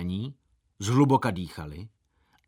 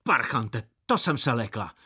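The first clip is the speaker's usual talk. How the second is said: put-on high, loud old woman's scolding, building up; scolding market woman; 9 semitones higher, 4 dB louder than usual. Old fruit seller scolding a boy who scared her, high and loud. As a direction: spit out the scolding at the brat. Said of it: "A odplivla si".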